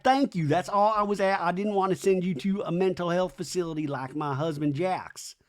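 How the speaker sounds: high-pitched retort, easing down by the end; lightly voiced Brittany. Acts out Brittany's reply.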